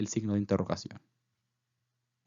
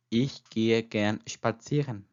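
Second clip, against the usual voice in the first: slow whole sentence; much slower than usual. Shown as a demonstration.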